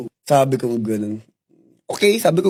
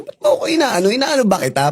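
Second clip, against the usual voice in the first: retold anger; 5 semitones higher than usual. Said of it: "gigil na gigil ako sa kanya".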